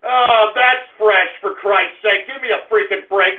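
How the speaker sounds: ordinary talk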